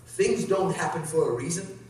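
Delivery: drawn out so each word lands; slow, deliberate repeat. Shown as a demonstration. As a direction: say it slowly for close listening. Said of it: "But listen closely".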